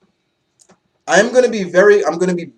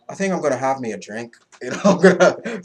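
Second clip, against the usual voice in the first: rough attempt at an Irish accent; bad Irish accent. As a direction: lightly put on a clumsy Irish lilt. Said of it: "Irish accent I've ever done".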